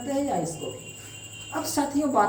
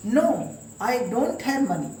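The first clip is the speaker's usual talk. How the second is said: slow, careful demo; much slower than usual. Shown as a demonstration. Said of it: "नए version में चलते हैं".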